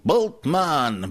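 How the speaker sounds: high-pitched heroic "Bultmann"; parody superhero announcement. Pretend. Joking about his own parody, superhero announcement. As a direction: announce "Bultmann" like a comic-book hero. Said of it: "biblical critical superhero".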